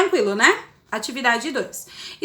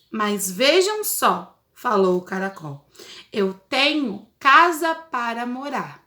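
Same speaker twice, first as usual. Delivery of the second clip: put-on reading to children; 3 semitones lower than usual. Teacher reads story to children.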